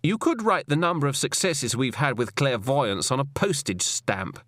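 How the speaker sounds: a hint of cold sternness; lightly voiced, stern woman boss. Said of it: "But her voice remained cold and stern".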